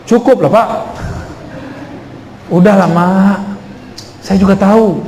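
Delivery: mildly exasperated brush-off; fed-up child. Acted. Non-santri child to lecturing parents, mildly fed up. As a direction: lightly act a child cutting parents short. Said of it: "Kalau anaknya nggak santri".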